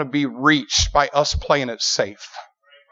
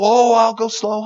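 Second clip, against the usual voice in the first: tag; 6 semitones higher than usual. Acted. Husband reassures wife before ride.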